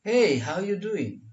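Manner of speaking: high, slow "how you doing" with no are; are dropped entirely. Shown as a demonstration. Teacher greets in example, are dropped entirely. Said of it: "tidak disebutkan sama sekali".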